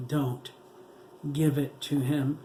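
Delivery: strained, choking plea. A narrator's reading. Dying daughter choking out a warning. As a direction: force the words out while dying. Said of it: "she choked".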